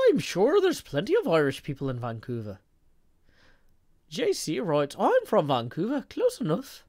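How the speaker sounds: hammed-up Irish accent; playful bad Irish brogue; mock Irish accent. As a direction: read it out in a swooping fake Irish lilt. Reads chat in mock Irish accent.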